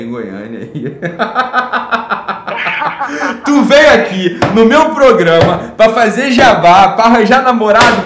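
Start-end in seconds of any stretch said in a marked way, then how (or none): 1.0-3.4 hearty laugh. Real, not acted. Host laughs at caller. 3.4-8.0 loud, slow, laughing tease; teasing laugh. Real, not acted. Teasing caller on air.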